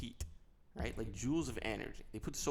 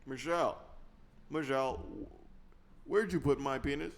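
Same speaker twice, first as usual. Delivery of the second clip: lightly voiced presidential impression with drawn-out pauses; halting, stretched statesman delivery; Barack Obama; 3 semitones higher than usual. Calling to Michelle with a question, halting Obama impression. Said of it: "it's Barack Obama".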